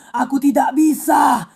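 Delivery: crying. Real, not acted. Woman in distress during arrest.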